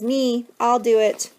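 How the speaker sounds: high, loud and drawn-out volunteering; eager child's yell. A narrator's reading. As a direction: yell to be picked, slowly stretched. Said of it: "Michael Eric yells".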